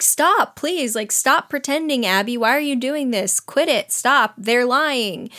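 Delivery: imitating an exasperated girl's plea; mock pleading. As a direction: beg them to stop, lightly acted. Acted pleading with the pretending girls.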